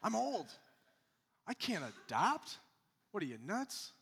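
high, loud mock complaint of an old man; mock old objector. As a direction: whine it like an old man refusing. Voicing an objecting older person.

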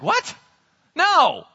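high-pitched what, then a loud no; shocked, emphatic refusal; incredulous refusal. Acted. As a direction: balk in mock astonishment. Acted Philistines refuse in disbelief.

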